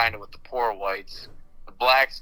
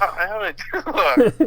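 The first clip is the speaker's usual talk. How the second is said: put-on higher-pitched Mexican grandpa accent; 11 semitones higher, 4 dB louder than usual. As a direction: imitate an old Mexican grandpa. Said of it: "What does he sound like?".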